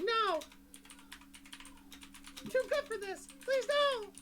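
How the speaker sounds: high, loud wailing plea from a tiny creature; crying blue orb. Acted. Game master voices a doomed orb, high tearful pleading. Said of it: "the blue orb starts crying".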